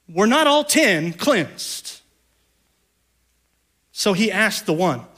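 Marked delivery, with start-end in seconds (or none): 0.1-2.0 Were not all ten cleansed dragged out slowly, leaning on not; slow sarcastic question. Shown as a demonstration. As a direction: let the sarcasm hang, very slow. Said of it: "I sense a little sarcasm".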